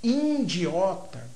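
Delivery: "indiota" with an added nasal in, very slow; nasalized mispronunciation. Shown as a demonstration. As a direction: stretch "indiota", nasal first syllable. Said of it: "as nasalizações".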